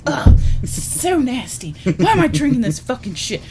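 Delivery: mildly angry, disgusted grumbling; a touch of hammed-up revulsion; growing anger. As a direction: grumble with mock disgust, getting angrier. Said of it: "he just gets angrier and angrier".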